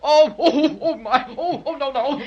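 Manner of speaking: tickled and pleading. Acted. Villain caught, being tickled.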